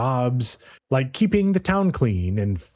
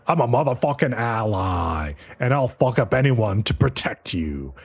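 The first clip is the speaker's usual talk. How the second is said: lower-voiced hero pledge; mock heroic vow; 4 semitones lower than usual. Hero pledges protection to the girl, mock-heroic. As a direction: play the hero swearing loyalty in a low voice. Acting out hero's bold vow.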